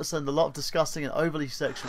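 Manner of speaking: put-on a light stab at an Australian accent; half-committed Australian accent; attempted Australian accent. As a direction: read the quote slightly Aussie. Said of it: "trying to do an Australian accent".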